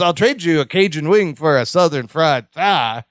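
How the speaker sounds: put-on lightly done comic Southern-fried accent; funny accent. Balki offering Larry a chicken swap, funny accent. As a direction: quote it with a slightly funny accent. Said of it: "in a funny accent".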